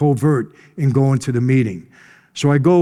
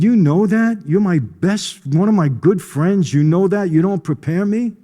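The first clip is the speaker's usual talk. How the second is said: retold anger; 5 semitones higher than usual. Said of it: "So now I'm even more mad".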